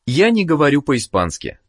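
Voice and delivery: ordinary talk, nothing marked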